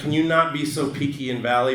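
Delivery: ordinary delivery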